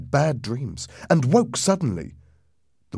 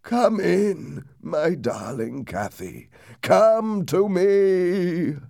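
slow, high, anguished plea; pained calling; 8 semitones higher, much slower than usual. A narrator's reading. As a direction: call out into the night, drawing the words out in pain. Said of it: "There was such pain in his voice".

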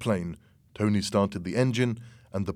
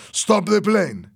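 high, drawn-out command; acted raised-voice instruction; loud order; 10 semitones higher, 6 dB louder, slower than usual. A narrator's reading. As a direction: call the order to the pilot. Fernando orders the pilot under threat.

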